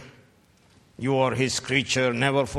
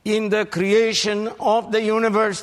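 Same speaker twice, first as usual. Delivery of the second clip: mocking quote; 7 semitones higher, 4 dB louder than usual. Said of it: "Stephen Hawking, who said".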